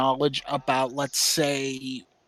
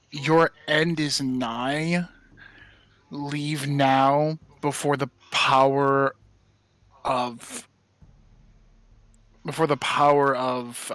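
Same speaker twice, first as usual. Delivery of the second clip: slow, menacing gravelly voice; slow and ominous, voice of doom; 3 dB louder, slower than usual. Acted. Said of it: "kind of like a gravelly voice".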